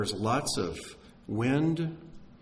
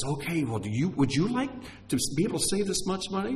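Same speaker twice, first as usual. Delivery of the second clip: salesman's pitch; 6 semitones higher, faster than usual. Acted. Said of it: "this whole big sales pitch".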